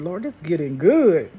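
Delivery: loud, eager reply to God; excited. Retold or imitated. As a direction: relish the drama out loud.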